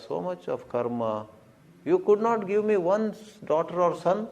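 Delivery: mock-indignant rant at the devas, pitch up at the start; scolding the gods. Devotee berating the devas for ignoring his rituals, indignant. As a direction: play the wronged devotee demanding his due.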